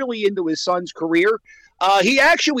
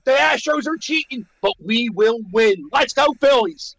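rally cry; 4 semitones higher than usual. Real, not acted. Rallying the fans at sign-off.

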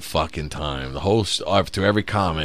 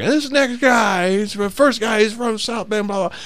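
host intro voice; 12 semitones higher than usual. Retold or imitated. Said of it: "the guy's like".

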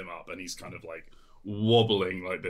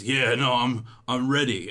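loud, higher, faltering readiness; dazed eager hero; 5 semitones higher, 7 dB louder than usual. Acted. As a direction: insist loudly while still gathering your senses. Hero gathering his senses.

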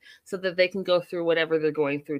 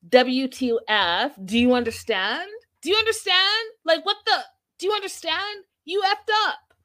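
high mock outrage; 9 semitones higher than usual. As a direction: squeal it out, higher and higher, outraged. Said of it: "So he was like".

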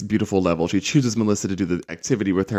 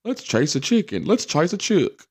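higher-pitched playful Irish lilt; mock Irish accent; 8 semitones higher than usual. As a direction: put on a jokey Irish accent. Mock call about Ireland chicken chase.

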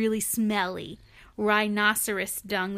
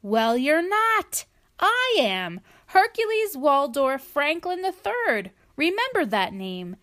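lightly voiced haughty claim; pompous hippo; 5 semitones higher, 4 dB louder than usual. Other hippo boasting his full name, a touch haughty. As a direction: boast your grand name.

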